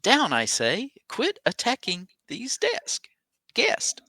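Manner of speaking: high wailing ghost order; ghost captain shouting. Acted. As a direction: cry out like an angry ghost.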